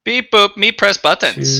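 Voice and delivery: beep-boop robot voice. Pretend. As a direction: play a simple-minded robot. Ship AI robot noises.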